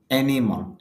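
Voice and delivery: অ্যানিমাল with a push on অ্যা; teacher demonstrating the stress to students; stress on first syllable. Shown as a demonstration. Teacher pushing the first syllable. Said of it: "এইভাবে".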